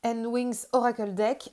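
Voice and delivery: "Roots and Wings Oracle Deck" with a thick French accent, slowly; strong French accent. Real, not acted. Presenting her oracle deck to viewers, in a strong French accent. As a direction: read the English title the French way, unhurried. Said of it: "avec mon accent bien Frenchy".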